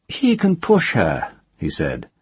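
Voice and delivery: a threat at the cliff edge; captor's voice. Acted. Man speaks at cliff.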